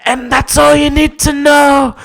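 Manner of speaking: very high, loud, slow falsetto pronouncement; hammed-up shrieking snooty owner; haughty owner. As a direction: announce the name grandly and shrill. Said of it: "they go".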